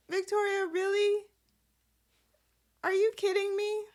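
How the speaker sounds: very high-pitched disbelief; incredulous. Real, not acted. Viewer scolding a character over her job offer, incredulous.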